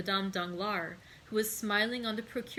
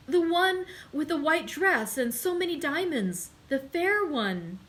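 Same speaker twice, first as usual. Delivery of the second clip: higher and louder, anxious pointing-out; agitated; 7 semitones higher, 6 dB louder than usual. A narrator's reading. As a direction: insist on her with rising dread. Servant describing the woman, agitated.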